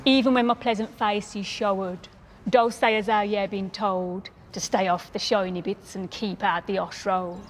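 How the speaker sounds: measured Black Country poetry reading; dialect poem recital. Acted.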